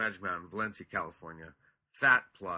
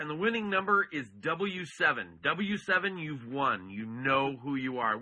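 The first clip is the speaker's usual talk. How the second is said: raffle caller; 4 semitones higher, 4 dB louder than usual. Acted. Announces winning raffle number.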